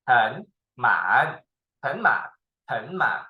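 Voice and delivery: 很满 with 很 rising and 满 dipping; second-third tone. Shown as a demonstration. Teacher showing the easier accent, second then third tone. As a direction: lift 很, then drop into 满. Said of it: "change to be second and third tone".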